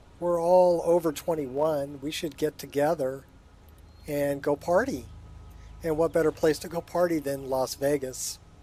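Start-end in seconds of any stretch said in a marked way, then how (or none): none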